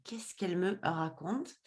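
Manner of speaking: slow, breathless whisper to herself; whispered thought. Retold or imitated. Puzzled in the car beside her husband, slow private whisper.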